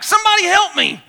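high-pitched echo of a yell; imitated echo calling out; echoed cry. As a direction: throw the cry back like a cliff echo. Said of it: "he heard this voice come back".

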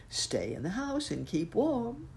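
calling out. Acted. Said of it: "called Uncle Wiggily".

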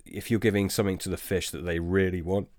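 burp breaking through speech; talking through a burp. Real, not acted. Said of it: "excuse me, I'm burping again".

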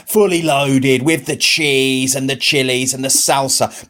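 slow, tempting menu list; teasing himself. Retold or imitated. Husband tempting himself with nachos, slow and teasing. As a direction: linger lightly over each topping, teasingly. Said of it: "I was teasing myself".

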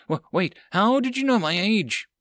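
flustered and startled; alarmed. Acted. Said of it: "Liz looked alarmed".

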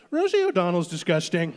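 lightly voiced Trump, blunt; Trump impression. Son at dinner suddenly sounding like Trump, a hint of Trump. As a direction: drop it at the dinner table. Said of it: "talk like Trump".

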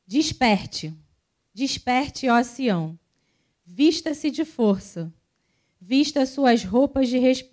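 slow, weighty Bible reading; scripture reading. Acted. Reading Isaiah to the congregation, slow and solemn. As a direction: read the verses like a proclamation.

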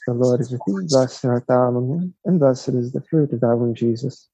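steady recited Hail Mary; recited prayer. Real, not acted. Friar leading the Hail Mary, steady recitation.

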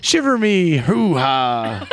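slow, drawn-out pirate voice. Pretend. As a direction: stretch it out like a lightly voiced pirate. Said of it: "you have to do everything in a pirate voice".

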